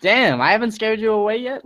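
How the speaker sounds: high-pitched retold amazement; lightly astonished, voice lifted; dumbfounded. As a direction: marvel at it in mock disbelief. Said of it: "I get more dumbfounded".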